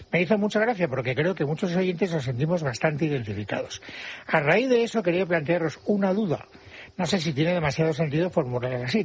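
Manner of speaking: presenter reading out a listener's letter, slightly lifted; radio letter read-out; letter read aloud. A narrator's reading. Host reads a listener's letter.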